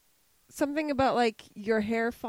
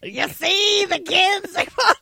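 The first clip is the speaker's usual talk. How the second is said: mall Santa voice; 4 semitones higher, 5 dB louder than usual. Retold or imitated. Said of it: "Ho, ho, ho".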